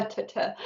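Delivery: ta, ta as soft breathy clipped t syllables; crisp t sound. Shown as a demonstration. Psychic showing the sitter the t in neat, soft and breathy. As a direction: tap out the t of neat lightly. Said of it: "emphasis on the".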